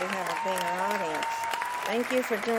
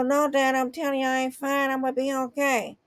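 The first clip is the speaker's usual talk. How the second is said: lightly raised, pleading son voice; son insisting; 4 semitones higher than usual. Retold or imitated. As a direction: play the stubborn son, slightly higher. Son insisting in retold story.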